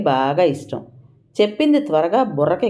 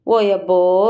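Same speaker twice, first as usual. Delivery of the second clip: drawn-out mocking "oh, really"; pouting scoff; 2 semitones higher, 3 dB louder, slower than usual. A narrator's reading. Vimala scoffing at Nalini's challenge, with a mocking pout. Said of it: "Vimala మూతి విరిచింది".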